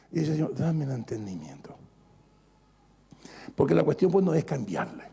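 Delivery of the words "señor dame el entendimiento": "Señor, dame el entendimiento" en susurro; oración susurrada. Acted. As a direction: susurra la oración como pidiendo a Dios en secreto. (oración susurrada en voz baja)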